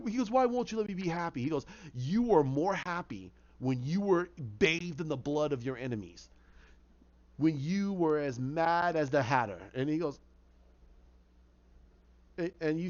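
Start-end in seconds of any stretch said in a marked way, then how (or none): 0.3-1.4 higher-pitched protest; anguished plea. Acted. Jervis begging the voice in his head, anguished. 1.9-9.6 sinister inner voice. Acted. Inner voice tempting Jervis back to madness, sinister. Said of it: "hear the voice in his head".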